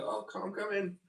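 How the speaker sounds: high-pitched coaxing; high voice as if to a pet; calling the dog. Acted.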